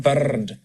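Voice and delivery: "bird" with a long trilled R; over-rolled R. Shown as a demonstration. Coach showing what to avoid, long rolled R in "bird". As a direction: roll the R several times in "bird". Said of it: "so it's not".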